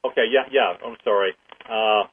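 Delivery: talking through a mouthful of food; chewing between words, mouth full; chewing while talking. Real, not acted. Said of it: "I'm munching here".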